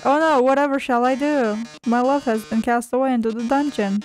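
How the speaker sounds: lightly voiced melodramatic lament; mock-tragic villain. Villain pretends to mourn the lover in the dungeon, lightly theatrical. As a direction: feign despair in stagey style.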